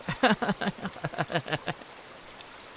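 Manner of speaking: long airy high-pitched giggling; a long creepy breathy giggle; breathy eerie giggle. Acted. Reina giggling as she follows Keiichi, breathy giggle.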